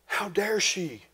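hushed mock outrage; mock indignation. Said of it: "the preacher's there going".

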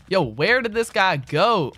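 loud, high, stretched-out outcry; exasperated bafflement. Real, not acted. Gamer still hunting his duel opponent, exasperated bafflement. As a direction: call it out slowly, utterly baffled.

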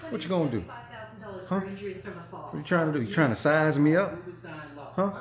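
playfully daring the dog to fight, squeaky tough; mock tough guy to dog. Challenging dog again.

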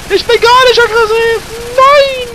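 loud, high laughing yell; shouting. Real, not acted. Repeats it yelling, laughing.

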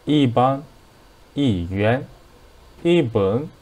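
이 said with a falling fourth tone before each word; careful teacher's demo, 이 in falling tone. Shown as a demonstration. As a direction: drop the pitch on each 이, word by word. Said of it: "and E became fourth tone".

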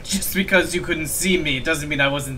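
put-on amateur French accent for a game character; attempted French accent. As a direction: read it in a shaky-at-best French accent. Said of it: "I can't do a French accent".

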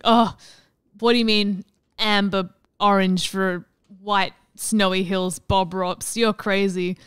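loud, teasing jab at the TV painter; mock outraged heckling. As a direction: heckle Bob Ross like a baffled viewer. Mock heckling Bob Ross on TV.

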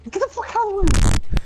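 loud high yell; shouting. Real, not acted. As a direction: yell it in a panic. Yelling in a fight.

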